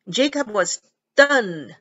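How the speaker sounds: stunned said short and bouncing, not drawn out; stunned 短促地弹一下; short clipped stunned. Shown as a demonstration. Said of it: "它是很短，stunned". (短促地念 stunned)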